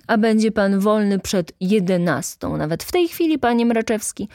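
exasperated boss letting fly; angry outburst. A narrator's reading. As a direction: scold the clerk with rising voice. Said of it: "wybuchnął Rzecki".

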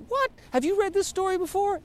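high incredulous squeak of disbelief; retold shock, voice leaping up. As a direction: act out gasping in disbelief. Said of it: "I'm reading that and I'm like".

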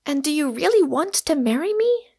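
high, earnest question; grand sincerity. A narrator's reading. Rosamond asking if he really wants marriage, sincerely. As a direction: ask with solemn sincerity, pitched high. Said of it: "with a grand sincerity".

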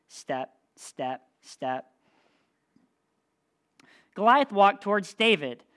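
lively read-aloud for a youth group; storyteller voice, building suspense; dramatic storytelling. Acted. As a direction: tell the Bible story with drama. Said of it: "read it kinda dramatically too".

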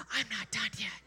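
hushed breathy whisper. Pretend. God whispering a promise to Ruth. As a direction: lean in and breathe it softly. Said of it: "whispers once again".

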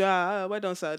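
1 Nigerian pidgin. Retold or imitated. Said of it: "trying to put on my small, small pidgin".

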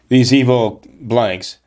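slowed, careful substitute for a swear word; coyly censoring the quote as it is read; wary self-censoring. Shown as a demonstration. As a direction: swap in "blanks" for the curse, hesitantly. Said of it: "Can I say that here, question mark".

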